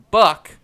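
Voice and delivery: "buck" with an uh vowel. Shown as a demonstration. Listing three ways to say it, uh-vowel "buck". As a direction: say "buck" to rhyme with luck. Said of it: "There are three ways to say it".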